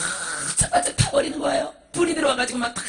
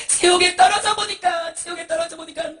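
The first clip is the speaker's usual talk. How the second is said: anguished cry; 3 semitones higher, 9 dB louder than usual. Acted. Miser voiced in hell.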